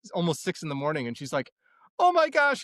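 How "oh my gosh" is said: high-pitched mock cry of dismay; very high retold wail; imitated tearful shock. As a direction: imitate an upset wife starting to cry. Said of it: "she, like, starts crying".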